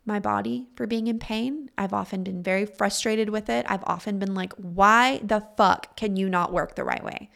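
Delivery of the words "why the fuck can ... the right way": voicing impatient self-scolding, pushing harder with each question. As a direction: scold your own body for not working right. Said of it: "Very impatient, scolding".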